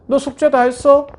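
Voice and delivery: loud, high scolding snap; mother yelling about homework at her child. Retold or imitated. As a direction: bark it at the kid like an annoyed mom. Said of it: "윽박 지르고".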